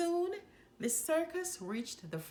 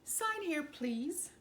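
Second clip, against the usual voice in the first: stork delivery; 6 semitones higher, slower than usual. A narrator's reading. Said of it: "the stork told Missus Jumbo".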